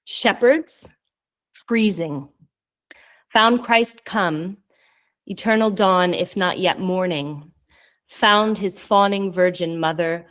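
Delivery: measured poem recital, phrase by phrase; serious poetry-reading delivery. Acted. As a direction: read your poem aloud with deliberate pauses. Reads own poem aloud.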